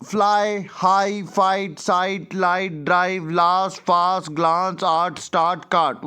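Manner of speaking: fly to cart as an evenly spaced list, each word distinct; pronunciation word list. Shown as a demonstration. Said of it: "pronunciation improve करने के लिए".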